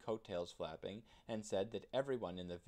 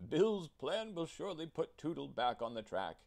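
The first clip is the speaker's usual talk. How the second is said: higher, louder amused mayor; chuckling mayor; 6 semitones higher, 6 dB louder than usual. A narrator's reading. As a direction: chuckle it smugly. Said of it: "he chuckled".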